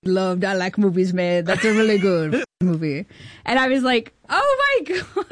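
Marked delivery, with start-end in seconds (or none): 0.0-3.1 light, laid-back buddy voice; casual, friendly Sandler praise; Adam Sandler impression. Adam Sandler praising her film on the phone, lightly voiced. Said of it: "It's the real Adam Sandler voice?". 4.3-5.2 high, breathless oh my God; overwhelmed squeal; stunned. Retold or imitated. Star-struck on a call with Adam Sandler, high squeal.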